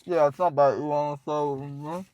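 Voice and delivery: words round a bite of bread; talking while eating. Real, not acted. Tasting bread with partner, talking while eating. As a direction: talk through a mouthful. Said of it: "Don't talk like that".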